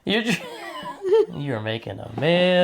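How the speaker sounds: giggling through the words; laughing. Real, not acted. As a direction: laugh while teasing. Laughing at wife's mess.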